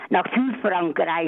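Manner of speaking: slow and deliberate for the host; slowly, on request. Real, not acted. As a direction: say it slowly and clearly. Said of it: "könnten Sie nochmal den Ort ganz langsam sagen".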